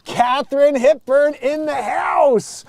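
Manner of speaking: high, slow grand-dame announcement; Katharine Hepburn voice. Acted. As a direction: proclaim it like an old Hollywood star. Exclamation d'annonce théâtrale.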